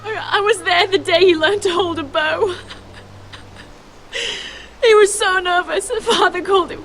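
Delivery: tearful memory. Acted. Grieving, remembering her brother.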